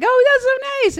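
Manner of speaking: high-pitched delighted coo; retold gushing. Fan reacting to the MC's introduction, retold high gushing. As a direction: gush sweetly, imitating your own reaction.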